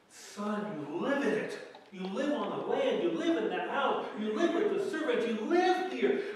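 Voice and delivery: rising from firm to loud, pitch climbing on each live; building plea. Acted. Father pleading with his resentful son, building to a loud cry.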